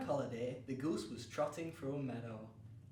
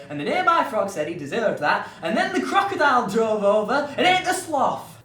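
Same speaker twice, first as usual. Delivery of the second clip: rising frantic narration; 14 dB louder than usual. Acted. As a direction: race to a shouted ending. Narrator builds to frantic climax.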